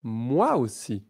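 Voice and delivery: moi aussi said at normal speed, joined. Shown as a demonstration. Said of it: "Plus rapidement".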